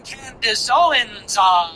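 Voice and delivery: slow, drawn-out name with a theatrical pause; mocking her intro. Host mimicking how the commentator opens, slow and theatrical. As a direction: stretch the name, then hang. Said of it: "like she's always doing".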